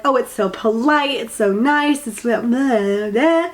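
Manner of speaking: mock-polite gushing, dragging out the blahs; mocking niceties. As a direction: parody empty pleasantries with a dismissive blah. Mocking people who praise niceties.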